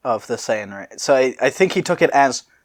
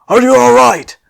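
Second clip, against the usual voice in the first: high, loud worried question; loud high concerned voice; concerned call; 12 semitones higher, 11 dB louder than usual. Acted. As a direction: call out to check on her. Sissel checks on Nani.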